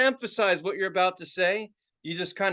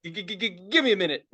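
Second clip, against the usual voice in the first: mock stutter; faster than usual. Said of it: "now I have a fucking stutter".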